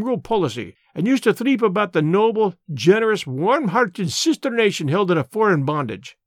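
put-on an old border radical holding forth in broad Scots; lightly voiced Scots elder, earnest and proud; Scots labour man. Old Amos lectures Mister Brand on the war, lightly voiced Scots.

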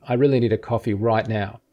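really leaned on; "really" given the weight; stress on really. Shown as a demonstration. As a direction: lean on "really" in "I really need a coffee". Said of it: "let's say that line is".

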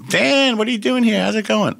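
high, loud eager studio greeting; excited greeting. Retold or imitated. Studio owner greeting Dan excitedly. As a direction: greet the legend with big enthusiasm.

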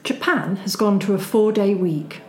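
formal news read; newsreader voice. Shown as a demonstration. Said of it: "Can you do it in a newsreader voice?".

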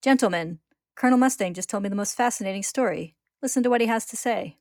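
booming host presenting a guest; loud announcement. Acted. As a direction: announce it loudly to the room. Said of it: "loudly announces their presence".

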